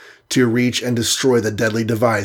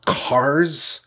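a higher, strangled gasp of a name; choked, aghast; 4 semitones higher than usual. Acted. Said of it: "choked Hawkeye, aghast".

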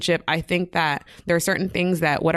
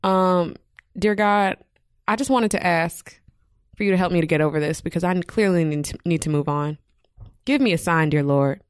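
earnest prayer. Pretend. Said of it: "I'm trying to finish the prayer".

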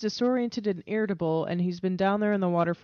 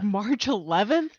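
surprised. Real, not acted. Co-host surprised by release date.

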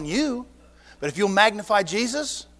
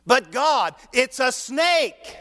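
higher, slow, laughing objection; laughing protest; 4 semitones higher, much slower than usual. Acted. Moses laughing again as he objects to God. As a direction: stretch it out, chuckling in disbelief.

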